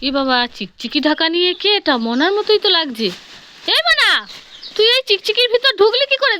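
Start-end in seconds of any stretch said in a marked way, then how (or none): 3.7-6.4 1 surprised. Acted. Mother surprised finding girl.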